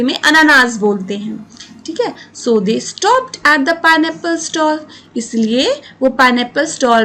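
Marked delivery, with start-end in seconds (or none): 2.4-4.8 slow, deliberate reading aloud for pupils; slow story reading. A narrator's reading. Teacher reading the story line to students, slow and clear. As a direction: read each word out clearly and slowly.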